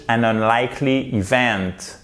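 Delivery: unlikely with a wide open "like", then VENT; open-mouthed articulation. Shown as a demonstration. Teacher telling learners to open up, open-mouthed articulation. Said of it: "faut ouvrir la bouche".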